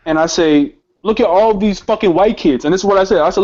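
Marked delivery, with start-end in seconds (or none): 1.0-2.7 raised, higher-pitched indignation; worked-up retelling of a challenge; heated protest. Retold or imitated. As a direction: argue it back heatedly, retold. Retold outburst at the officer.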